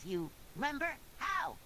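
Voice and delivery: mild surprise, pitch jumping up on HOW; slightly surprised. A narrator's reading. SpongeBob learns Mister Krabs remembers the episode, slightly surprised. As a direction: ask it with a touch of surprise. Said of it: "in a slightly surprised voice".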